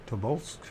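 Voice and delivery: tentative "Tobolsk" with a rising, questioning end; unsure pronunciation. Real, not acted. Reader unsure of a Siberian town's name, tentative rising "Tobolsk". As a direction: try "Tobolsk" as if asking whether it is right. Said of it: "Is that how you pronounce it?".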